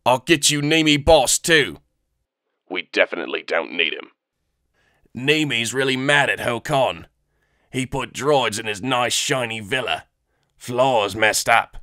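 alien eager to please; eager Weequay. Acted. Weequay offering help.

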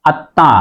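আত্মা as at-tã, last vowel through the nose; nasalised ending. Shown as a demonstration. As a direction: double the t of আত্মা, nasalise the final a. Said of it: "চন্দ্রবিন্দু হয়েছে".

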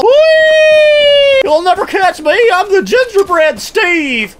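high gleeful taunt; squeaky taunt. Pretend. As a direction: taunt them as you flee.

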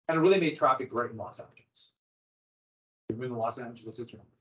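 sarcastic. Real, not acted. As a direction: feign praise, dryly understated. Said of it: "Am I being sarcastic?".

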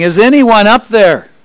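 loud, high call for help upward; a man on a cliff calling out for rescue; yelling. Acted. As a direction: shout up the cliff, hoping someone hears. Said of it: "he started yelling".

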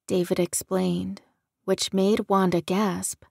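plain reading voice

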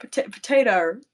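"potato" ending in a hard R; mock Aussie R on the end of "potato"; R tacked on. Shown as a demonstration. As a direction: say "potato" as puh-tay-tor. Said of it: "you tack on an R".

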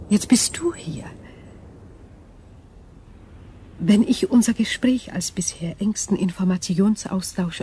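alien whisper, breathy and hushed; eerie whisper. Acted. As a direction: breathe it like an unearthly being.

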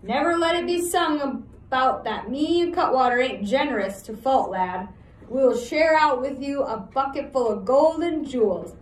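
loud, coaxing ruffian; gruff outlaw voice. Acted. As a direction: bribe him like a thug. Outlaw Billy tempts.

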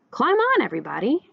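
Duck calling all aboard, mild shout. A narrator's reading. Duck inviting the animals onto the tractor, shouting. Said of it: "shouted Duck".

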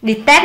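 "Detest" stressed on its second syllable, test. Shown as a demonstration. Teacher going over stress answers, second syllable of Detest stressed. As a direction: lean on the end of "Detest". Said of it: "là âm hai".

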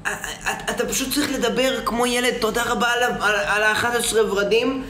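put-on high childish voice through laughter; Aridor impression. Viewer asks for the Aridor impression, high childish voice. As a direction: talk like a little kid, giggling. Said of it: "תעשה את החיקוי של ארידור".

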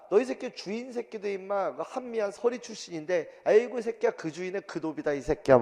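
mock insulting rant. Master's son cursing a rival's servant, mock insulting rant. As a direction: hurl insults in a play quarrel. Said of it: "노비 막 욕을 하다가".

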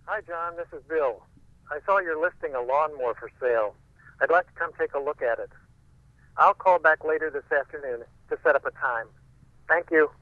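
fast, loud voicemail over a phone line; quick phone message, a bit rushed; leaving a voicemail. Acted. Voicemail played from answering machine.

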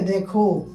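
দেখো with an open "ae" in the first syllable; demonstrated pronunciation. Shown as a demonstration. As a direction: sound out দেখো as "dae-kho". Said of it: "এখানে এর মতো উচ্চারণ হবে".

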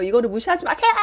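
indignant plea rising at the end; half-laughing mock outburst; mock protest yell. Housewife demanding not to be looked down on, mock protest. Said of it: "그렇게 소리질러 봤자".

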